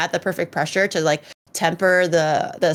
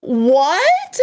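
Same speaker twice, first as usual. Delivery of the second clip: high, louder what; disbelief; 6 semitones higher, 4 dB louder than usual. Retold or imitated. Hearing about fourteen shots, stunned what. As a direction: gape in disbelief. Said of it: "I was like".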